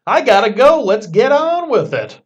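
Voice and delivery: itching to leave the line; impatient. Pretend. Impatient soul waiting in line.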